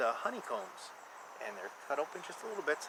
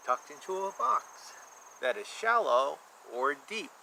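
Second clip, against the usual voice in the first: lilting rhymed picture-book read; sing-song storybook reading for a child; reading to children. A narrator's reading. Reads rhyming picture book aloud.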